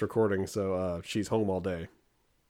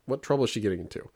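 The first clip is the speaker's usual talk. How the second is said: higher, rising panic, racing on the last line; a dad's retold alarm, pitched up; worried dad; 4 semitones higher than usual. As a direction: fret aloud about the missing kid. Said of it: "So I'm like".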